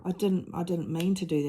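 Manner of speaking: sorry daughter. Retold or imitated. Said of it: "And she said".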